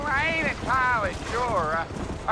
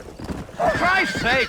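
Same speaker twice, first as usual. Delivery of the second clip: drawn-out cry, much higher and slow; an old wagon driver suddenly startled; startled exclamation; much slower than usual. Acted. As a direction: yelp it out in shock, stretching each word. Guide startled on the trail.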